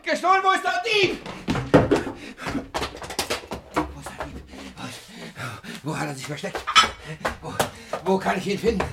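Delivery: put-on high, breathless, desperate old man; frantic miser. Robbed miser frantically searching for the thief. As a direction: lose your mind over the lost money.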